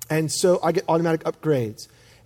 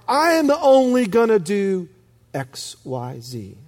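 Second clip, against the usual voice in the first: self-belittling. Acted. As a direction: act out feeling second-rate. Acted self-belittling believer, voice drops.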